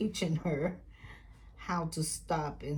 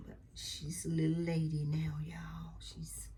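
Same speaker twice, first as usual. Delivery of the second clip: whispering; 3 dB quieter than usual. Real, not acted. Whispered aside to viewers.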